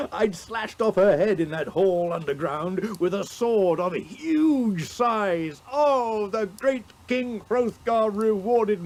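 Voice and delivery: high, loud victorious hero; triumphant boast. Acted. Hero presents his treasures to Hygelac, loud and high.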